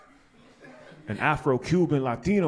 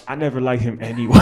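catty friend; 2 semitones lower, 7 dB louder, faster than usual. Retold or imitated. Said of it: "they're gonna be like".

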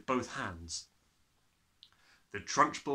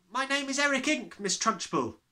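put-on higher, polite boy; lightly voiced schoolboy; 11 semitones higher, 3 dB louder than usual. Boy giving his name. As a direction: answer nervously.

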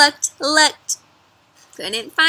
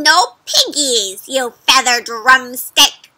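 mock witch screech, louder and slow with a laugh; 6 dB louder, slower than usual. Witch screeching at the farmer's chicken. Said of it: "Gritch screeched again".

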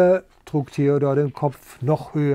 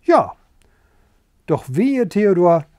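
calling out; 3 semitones higher, 6 dB louder than usual. Acted. Sheep shouting a warning to Theodor, loud. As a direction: call it out as a crowd of sheep. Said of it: "riefen dann aber".

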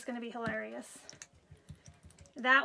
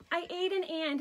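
put-on little boy voice; 5 semitones higher than usual. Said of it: "his little voice is the cutest".

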